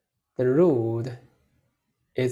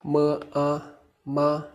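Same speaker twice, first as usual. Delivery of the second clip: "Ma, a, ma" held high and level; first tone. Shown as a demonstration. Teacher shows learners the first tone, "Ma, a, ma" high and flat. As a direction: keep "Ma, a, ma" even, no rise or fall. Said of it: "The first tone is high and flat".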